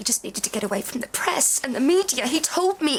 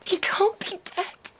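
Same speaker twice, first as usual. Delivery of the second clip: stunned whisper; 8 semitones higher, slower than usual. Real, not acted. Grief after learning of death.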